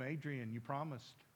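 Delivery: low, soft voice of God; quiet reminder. Retold or imitated. God reminds the boy of his promise, quietly. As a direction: remind him gently, low and hushed.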